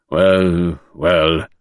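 a gentler, relenting tone; mild, softened murmur; softening. Acted. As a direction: let the sternness melt.

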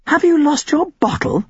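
put-on high scornful girl's challenge; demanding. A narrator's reading. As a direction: taunt him, scornful and sharp. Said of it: "she demanded".

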